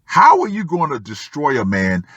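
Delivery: ordinary delivery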